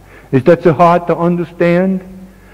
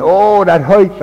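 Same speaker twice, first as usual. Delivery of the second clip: mock squeal of pain; 6 semitones higher, slower than usual. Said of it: "when she starts screaming".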